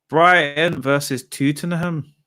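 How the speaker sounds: put-on Brighton versus Tottenham drawn out slow in an unplaceable accent; slow, mock fixture announcement in a vague made-up accent; mystery put-on accent. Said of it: "Don't know what accent that was".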